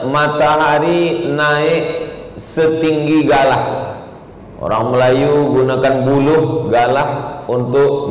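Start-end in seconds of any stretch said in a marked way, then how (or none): 0.1-3.9 slow explanation. Shown as a demonstration. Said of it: "dalam bahasa Arab artinya".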